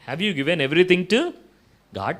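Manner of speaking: insistent repeat; pressing question. Retold or imitated. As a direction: press the question home, slow and loud. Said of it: "అన్నాడంట".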